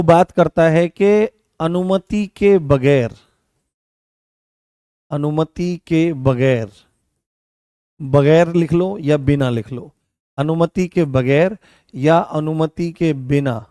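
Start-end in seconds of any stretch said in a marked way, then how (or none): 1.6-6.7 slow, measured dictation; spaced-out words for note-taking. Real, not acted. Teacher dictates notes for writing. 10.4-13.7 slow, measured dictation; spaced-out words for note-taking. Real, not acted. Teacher dictates notes for writing.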